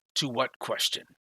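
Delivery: gruff, rough-sounding voice. Game narrator voicing Tabor when a player demands an answer, gruff Tabor voice. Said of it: "He says in a gruff voice".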